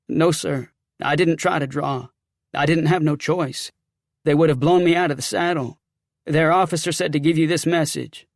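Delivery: lightly voiced defensive soldier; a hint of an agitated soldier; rattled sergeant.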